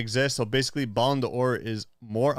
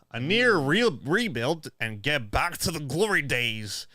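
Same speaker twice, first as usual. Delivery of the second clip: silly reading voice; slower than usual. Acted. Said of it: "Voices are crazy".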